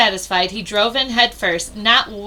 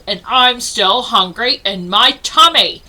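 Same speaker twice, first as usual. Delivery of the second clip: bellow; 5 dB louder than usual. Acted. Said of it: "he bellowed".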